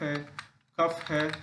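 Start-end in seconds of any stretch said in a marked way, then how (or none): 0.8-1.0 कफ ending in F. Shown as a demonstration. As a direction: pronounce the GH in कफ as an F. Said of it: "उच्चारण F के तरीके से".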